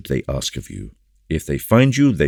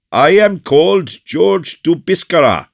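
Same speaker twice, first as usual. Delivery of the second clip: proud announcement; 14 semitones higher, 8 dB louder than usual. Acted. Officer proudly announces his name.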